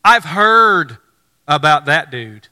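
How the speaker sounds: startled and pushing back, hammed up; alarmed protest. Ananias protesting to the Lord, mock alarm. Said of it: "immediately he says".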